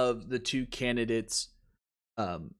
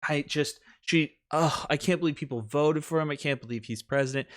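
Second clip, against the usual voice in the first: mock disbelief; 2 semitones higher than usual. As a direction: feign being appalled, slightly hammed-up. Acts out her feigned public outrage.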